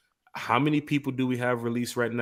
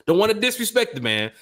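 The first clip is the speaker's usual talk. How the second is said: laughing; 11 semitones higher, 8 dB louder than usual. Real, not acted. Laughing at his own slip.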